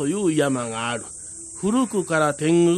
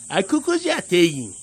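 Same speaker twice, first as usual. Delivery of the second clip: small tengu voice; 2 semitones higher than usual. Acted. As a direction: chirp it like a little goblin. 小天狗が居場所を教える. (甲高い小天狗の声)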